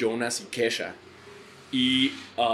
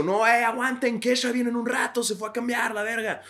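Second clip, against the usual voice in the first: stage announcement; 11 semitones higher than usual. Retold or imitated. Announcing to crowd.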